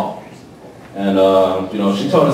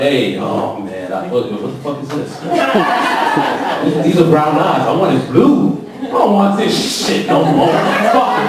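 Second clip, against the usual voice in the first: mock disgusted dad; 3 semitones higher than usual. Parent reacting to wrong baby.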